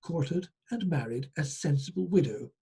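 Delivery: measured storyteller reading aloud; folk tale narration. Acted. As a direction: read the tale out to listeners.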